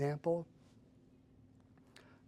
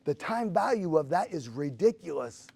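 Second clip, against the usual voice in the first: eager, louder inner voice; rising excitement at a discovery; excited realization; 3 semitones higher, 6 dB louder than usual. Retold or imitated. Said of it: "And I'm like".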